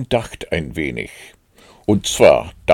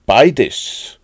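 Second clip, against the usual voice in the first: loud, higher eager answer; excited; 6 semitones higher, 7 dB louder than usual. A narrator's reading. Pooh answers Rabbit's offer of food, excited and loud. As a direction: burst out with it, excited. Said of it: "war er so aufgeregt".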